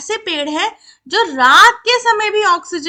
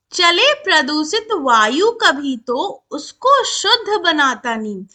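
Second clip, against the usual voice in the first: poem recitation. Shown as a demonstration. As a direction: stretch each word out in measured verse. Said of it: "चलो अब कविता पढ़ते हैं".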